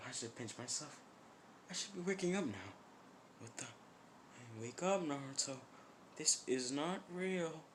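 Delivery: high, quiet disbelief; soft, frantic self-reassurance; panicked denial. Acted. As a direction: talk yourself out of it, high and unsteady in pitch. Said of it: "kinda becoming completely insane".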